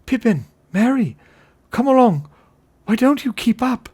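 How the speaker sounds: loud, high impatient call; high carrying shout. A narrator's reading. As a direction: holler for stragglers to catch up. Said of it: "he called".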